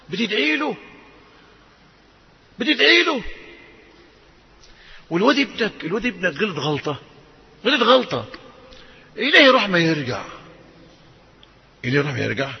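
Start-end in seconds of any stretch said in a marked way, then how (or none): none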